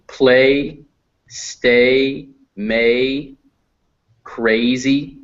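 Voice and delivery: spaced-out "play, stay, may, crazy", each vowel held; example words for A. Shown as a demonstration. Teacher giving examples of A, "play, stay, may, crazy" carefully separated. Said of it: "That's A".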